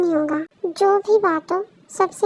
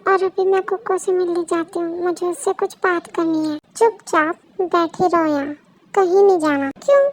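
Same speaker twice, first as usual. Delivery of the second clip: ordinary delivery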